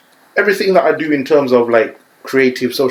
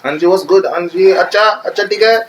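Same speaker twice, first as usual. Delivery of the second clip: put-on Desi accent; 6 semitones higher than usual. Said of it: "It's not bad".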